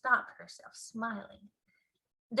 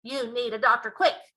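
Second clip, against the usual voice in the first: louder urgent advice; louder worried king; alarmed cry; 8 dB louder than usual. A narrator's reading. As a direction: urge her to see a doctor. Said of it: "cried the King".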